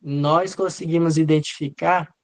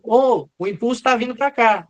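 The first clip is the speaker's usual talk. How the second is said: mock calling out; 5 semitones higher than usual. Derivation D1 warning that the impulse is coming, mock calling out. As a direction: lead calling out, higher pitched. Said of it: "D um tá gritando".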